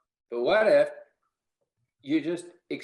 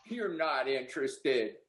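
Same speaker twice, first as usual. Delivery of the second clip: slow, softer and lower, amused disbelief; knowing retort; 6 semitones lower, 6 dB quieter, slower than usual. Pretend. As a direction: tell him you know better, quietly. Rep's knowing retort to customer.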